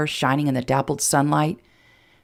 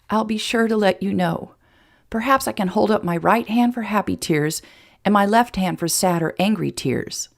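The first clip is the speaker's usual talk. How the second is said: slightly higher, playful heroine; lightly voiced teasing Emma; 4 semitones higher than usual. Emma offering Jason hand signals for tears, lightly teasing. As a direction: tease him with mock helpfulness.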